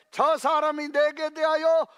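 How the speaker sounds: the king shouting in a rage at Jehoshaphat; angry king. Retold or imitated. Preacher acting out the angry king, loud and rising. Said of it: "막 화가 나가지고 하는 거예요".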